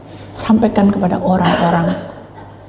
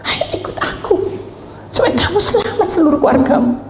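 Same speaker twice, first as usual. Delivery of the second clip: pleading in tears; 10 semitones higher than usual. Acted. Noah begging his friend to come, tearful. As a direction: beg a friend gently, close to crying. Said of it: "Sampai nangis dia".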